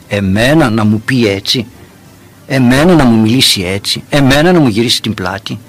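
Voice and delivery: mildly acted indignation, hitting each "εμένα"; wounded pride. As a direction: play a touch of offended ego. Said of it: "Αν έχουμε εγωισμό και πιστέψουμε ότι είμαστε σπουδαίοι". (ελαφρώς θιγμένος εγωισμός, παιγμένος)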